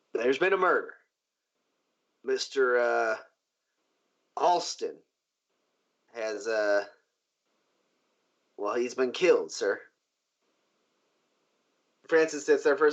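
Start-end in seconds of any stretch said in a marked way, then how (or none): 0.1-9.8 halting, reluctant report with long pauses; hesitant guard. Acted. Guard reporting a murder to his boss, hesitant. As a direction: break bad news haltingly, lightly acted. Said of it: "the speaker goes".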